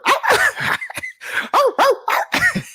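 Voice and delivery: squealing high-pitched laugh; high giggle. Real, not acted. Cracking up at his German Shepherd joke, high giggle. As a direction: burst into a shrill giggle.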